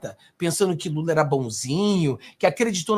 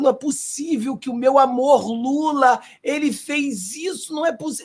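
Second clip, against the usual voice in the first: higher, mock whimpering lament, hammed-up; mock near-tears; 8 semitones higher than usual. Mocking a disappointed Lula supporter, hammed-up near-crying whine. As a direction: imitate a fan about to cry over his idol. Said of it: "o cara tá quase chorando".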